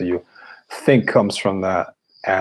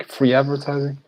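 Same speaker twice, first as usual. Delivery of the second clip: pitched up high in disbelief, mocking the claim; incredulous echo; 6 semitones higher than usual. Real, not acted. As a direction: throw "Free advertising?" back, stunned it was even said. Indignant echo of viewer's claim.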